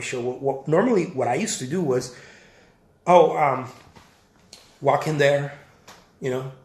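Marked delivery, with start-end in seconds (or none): none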